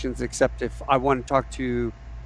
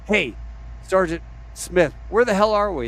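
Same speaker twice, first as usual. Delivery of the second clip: retold urgent demand; 6 semitones higher than usual. Gunny demands position from navigator.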